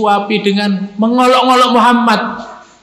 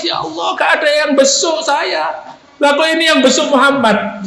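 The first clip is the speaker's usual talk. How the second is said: tearful lament; 5 semitones higher than usual. Retold or imitated. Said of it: "pemuda Yahudi ini nangis".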